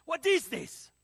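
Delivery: loud, high-pitched shouted demand; angry screaming. Retold or imitated. Louis screams at teen cook, angry yell. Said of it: "So he's screaming at me".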